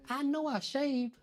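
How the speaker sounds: high, soft, slow alarmed thought; high hushed disbelief; panicked thought. Retold or imitated. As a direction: think it in alarm.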